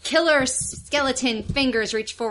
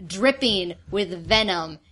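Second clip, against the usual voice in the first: scene setting; slower than usual. Acted. Game master describes the monster.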